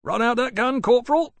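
loud stolid sergeant order. A narrator's reading. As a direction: bark it out unmoved. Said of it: "the sergeant said stolidly".

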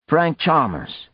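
lightly acted amiable hail. A narrator's reading. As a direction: amiable on top, anger held back. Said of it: "His tone was amiable".

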